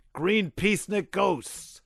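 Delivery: high, slow terrified scream. A narrator's reading. General screaming about the green ghosts. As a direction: shriek at the ghosts. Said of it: "he screamed".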